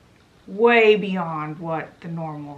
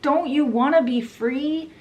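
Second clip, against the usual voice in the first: higher, urgent imitated appeal; mock yell; 6 semitones higher than usual. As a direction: imitate rousing a crowd, only moderately raised. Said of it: "John is still yelling".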